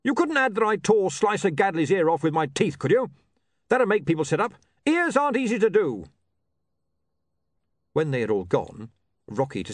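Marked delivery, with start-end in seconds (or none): 0.0-6.1 high tough-guy wheedling; hopeful barbarian. Acted. Barbarian asking editor for a better write-up, hopeful. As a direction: ask a favour, boasting shyly.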